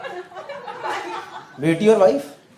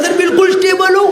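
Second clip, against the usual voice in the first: pitched up, forced cry of being fine; strained shout; 8 semitones higher than usual. Retold or imitated. Patient forcing a calm answer to the doctor, strained high shout. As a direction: squeak it out, trying to sound fine.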